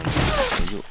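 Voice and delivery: "Throw you" jumped way up high, rising at the end; mocking high-pitched "Throw you"; squeaky repeat. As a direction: squeak the threat up high like a cartoon.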